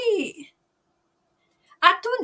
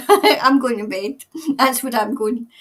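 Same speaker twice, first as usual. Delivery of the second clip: laughing it out, a bit louder; 7 dB louder than usual. Real, not acted. Streamer laughing as she tells viewers she's off to bed. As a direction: chuckle through the goodbye.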